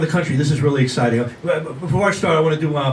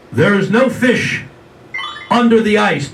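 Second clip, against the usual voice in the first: slow, louder voice from nowhere; mysterious voice; 4 semitones higher, 4 dB louder, slower than usual. Retold or imitated. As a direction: draw it out, eerie and insistent. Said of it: "he hears the voice".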